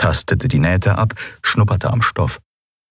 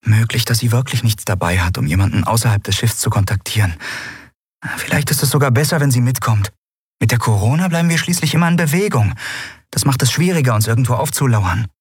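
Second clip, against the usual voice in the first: higher, quick-talking character voice; hurried, higher-pitched reasoning; 5 semitones higher, faster than usual. Acted. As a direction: argue the case briskly, pitched up.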